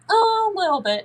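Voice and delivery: put-on high little-kid voice, a little unsure; imitated child, high. Child admitting to the parent it feels a bit concerned, high and small. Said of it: "And they're like".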